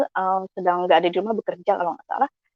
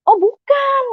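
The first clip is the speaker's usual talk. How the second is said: high-pitched, sing-out correction; emphatic denial; much slower than usual. Retold or imitated. Friend correcting a mistaken guess, high emphatic denial. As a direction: correct them in a much higher voice.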